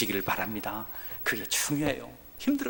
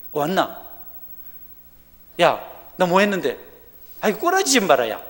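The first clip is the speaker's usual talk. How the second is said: loud, higher, rough buddy banter; mock rough greeting to a church member; rough casual talk; 5 semitones higher, 7 dB louder than usual. Shown as a demonstration. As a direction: bark it like an overfamiliar old pal. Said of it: "친한 것 같아도 그게 아니에요".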